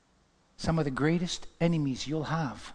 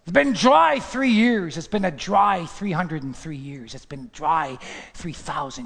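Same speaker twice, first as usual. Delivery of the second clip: exultant cry fading; 6 dB louder, slower than usual. Acted. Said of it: "David is saying".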